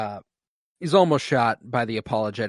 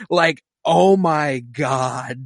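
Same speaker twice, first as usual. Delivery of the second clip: overwhelmed exclaim; 3 semitones higher, 6 dB louder, much slower than usual. Real, not acted. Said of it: "I fell apart".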